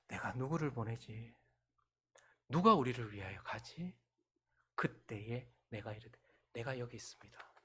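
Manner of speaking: slow, soft and grave; slow, quiet, solemn divine voice; solemn calm. Acted. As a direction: read it hushed and weighty. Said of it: "차분했고 떨렸을 거예요".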